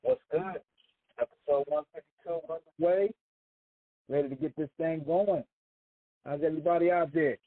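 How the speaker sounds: hollow, echoey line like a tunnel; echoing tunnel. Real, not acted. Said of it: "you sound like you in a tunnel".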